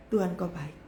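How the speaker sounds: hushed, low prayer as if crying; retold tearful praise. She praises God while crying, low and soft. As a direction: re-enact subdued praise through tears. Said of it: "Sambil nangis tuh".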